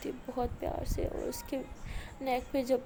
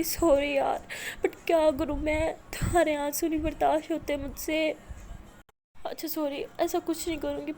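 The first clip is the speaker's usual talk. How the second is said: desperate pleading; 4 semitones higher, 5 dB louder than usual. Acted. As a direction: plead with her not to go. Maya pleads to lie together. (بے بس التجا)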